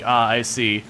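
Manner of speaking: dry sarcastic walkthrough voice; deadpan mock explaining. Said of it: "I was sarcasm there".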